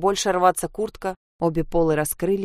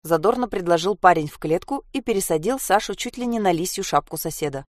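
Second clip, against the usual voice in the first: plain reading voice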